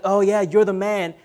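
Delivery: offhand praise, like cheering a buddy; light, casual "you're the man"; casual compliment. Acted. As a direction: toss it off as a friendly compliment. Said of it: "he doesn't necessarily mean like".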